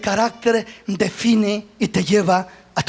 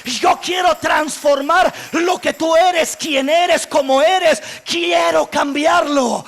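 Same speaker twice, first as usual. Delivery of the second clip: God's proclaiming voice; 4 semitones higher than usual. Acted. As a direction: thunder God's promise from the pulpit. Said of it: "Pero Dios dice".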